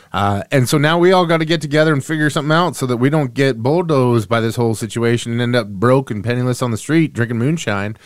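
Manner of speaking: put-on light Southern SEC country accent; a touch of Southern SEC accent. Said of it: "I go into my S E C accent".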